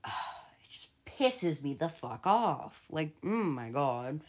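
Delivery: slow, sighing whisper; exasperated sigh. Real, not acted. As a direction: breathe it out, fed up. Exasperated sighed aside.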